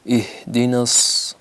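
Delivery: اہدنا begun slowly and cut off; careful tajweed chant; slow recitation. Shown as a demonstration. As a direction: start the verse then stop to correct. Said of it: "اہ نہیں پڑھنا".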